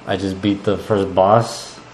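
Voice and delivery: muffled speech through hands; talking into cupped hands; face in hands. Real, not acted. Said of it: "Stop talking into your hands".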